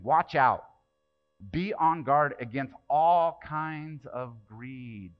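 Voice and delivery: loud, very slow scripture warning; stern warning. Acted. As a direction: proclaim every word of the warning. Preacher reading Jesus' warning.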